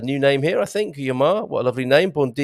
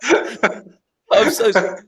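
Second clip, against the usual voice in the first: mock apology; 9 semitones higher, much slower than usual. Host teased for an outdated greeting.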